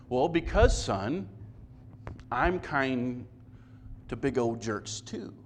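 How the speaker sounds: lightly voiced dad calmly explaining; patient dad. Father gently answering his complaining son. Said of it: "imagine this conversation".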